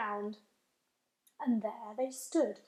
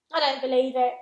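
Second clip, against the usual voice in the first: louder defiant protest; shouting; 7 dB louder, faster than usual. Acted. Centipede to James, louder defiant shout. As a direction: raise your voice in disbelief. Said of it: "shouted the centipede, raising his voice".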